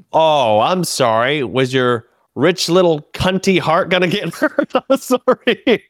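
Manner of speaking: drip false sympathy on it; a touch of mock pity, slowed down; sarcastic mock apology. Mocking rich heckler to crowd.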